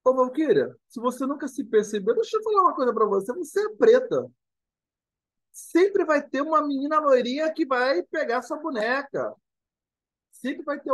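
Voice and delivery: a mother telling her daughter a hard truth; mother's hard truth. Retold or imitated. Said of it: "E a mãe dela virou pra ela".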